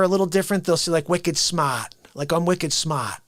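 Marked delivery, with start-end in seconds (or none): 1.1-1.9 put-on light Boston accent, dropped r in "smart" as "smaht". Host imitating a Boston caller, mild Boston accent. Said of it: "someone with a Boston accent". 2.3-3.2 put-on light Boston accent, dropped r in "smart" as "smaht". Host imitating a Boston caller, mild Boston accent. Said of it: "someone with a Boston accent".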